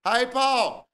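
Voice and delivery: high country twang, calling out to her husband; loud country lady. Retold or imitated. A loud country lady calling to her husband, pitched high. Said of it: "I did an impression of a lady".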